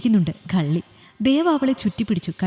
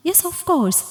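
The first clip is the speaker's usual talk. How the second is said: doctor's brisk yes; 9 semitones higher, much slower than usual. Acted. Doctor answers in English.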